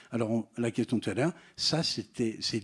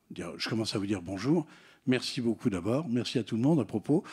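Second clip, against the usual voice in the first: calm thanks, dropping at phrase ends; endings on low notes; 2 semitones lower than usual. Shown as a demonstration. Demonstrating a speech opening that ends on low notes. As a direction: settle lower as each thanks ends. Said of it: "elle doit terminer dans les graves".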